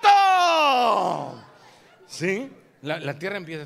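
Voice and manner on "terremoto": slow, booming shout, much louder; shouting terremoto. Acted. Preacher to congregation, acting out the earthquake, booming shout. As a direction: cry it out like the ground is shaking.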